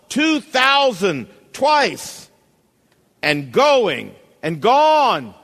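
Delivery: loud, slow, drawn-out auction calls; auctioneer calling bids. Acted. Auctioneer selling the violin to the crowd, loud and drawn out. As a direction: stretch each bid out for the room.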